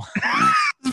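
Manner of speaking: high, loud shriek of a laugh. Real, not acted. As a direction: burst out in a squealing laugh. Candy cane revealed, outburst.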